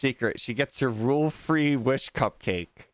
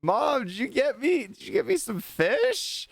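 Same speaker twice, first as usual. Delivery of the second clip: mock yell; 11 semitones higher than usual. Yumi calls from her room to mom about surprise fish, mock yell. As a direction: pretend to holler for mom in a high voice. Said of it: "she yells".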